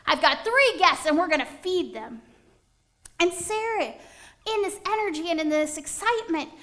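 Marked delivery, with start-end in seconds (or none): 0.0-2.2 calling out. Acted. Abraham calling to Sarah to bake, loud and urgent. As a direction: call across the house with urgency.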